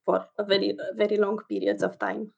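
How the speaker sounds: steady put-on Russian accent. Shown as a demonstration. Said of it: "I can talk in my Russian accent".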